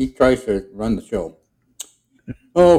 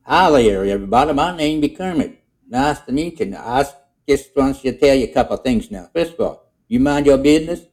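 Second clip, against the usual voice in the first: higher, louder folksy frog character; a frog introducing himself with broken grammar; Kermit character voice; 5 semitones higher, 3 dB louder than usual. Retold or imitated. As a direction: play the old frog laying down the law. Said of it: "He said".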